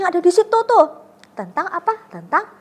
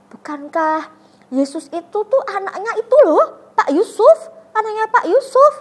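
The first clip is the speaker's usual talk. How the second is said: higher, louder scornful gossip; gossiping villager; 7 semitones higher, 7 dB louder than usual. Retold or imitated. Villager mocks Jesus to the crowd, scornful gossip. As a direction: sneer it to the crowd. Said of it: "Tapi terus ada yang bilang".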